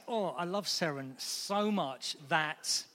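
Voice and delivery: quiet tender devotion. Shown as a demonstration. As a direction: speak of her gently. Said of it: "if I say".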